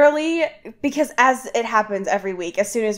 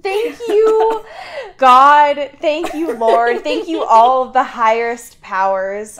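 mock gratitude; 3 semitones higher, 5 dB louder than usual. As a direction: praise it like a hammed-up revival. Mock praise for the article.

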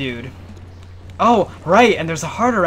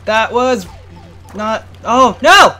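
rising cry of dismay; yelling as the jump goes wrong; frustrated yell; 5 semitones higher, 8 dB louder, slower than usual. Real, not acted. Gamer shouting as the jump fails. Player failing a jump in game.

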